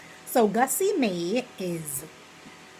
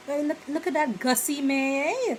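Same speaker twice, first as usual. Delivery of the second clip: gossiping; 6 semitones higher than usual. Retold or imitated. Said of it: "you'd be like".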